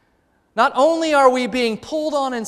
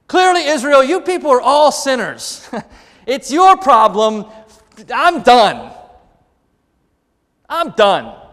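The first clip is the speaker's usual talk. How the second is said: mock exasperated prophet; 3 semitones higher, 7 dB louder, slower than usual. Imagined Jeremiah venting at Israel.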